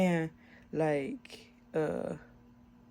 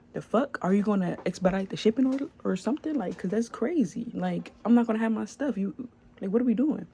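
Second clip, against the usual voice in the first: higher, exasperated rant; irritated; 4 semitones higher than usual. Retold or imitated. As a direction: vent at the seller, fed up. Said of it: "So now I'm irritated".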